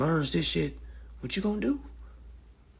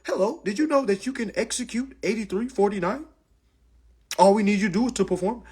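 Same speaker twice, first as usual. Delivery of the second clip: bank caller; 6 semitones higher than usual. Retold or imitated. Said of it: "they're gonna call you and say".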